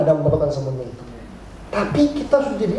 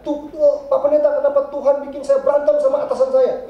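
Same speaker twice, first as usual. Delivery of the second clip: imitating a new church member, higher and complaining; whiny churchgoer; 5 semitones higher than usual. Pastor mimics a new member complaining to him, higher and whining. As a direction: plead like someone blaming God for everything. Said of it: "Dia bilang begini".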